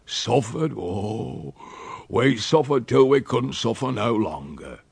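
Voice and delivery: broad rustic dialect, wearily emphatic; aggrieved old countryman. Acted. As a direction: complain like a long-suffering old uncle. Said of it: "and he said".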